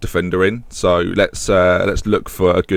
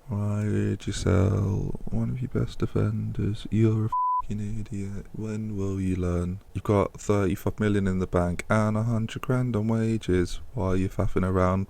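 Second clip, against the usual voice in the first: scolding inner voice; 10 dB quieter, slower than usual. Acted. Inner critic scolding himself.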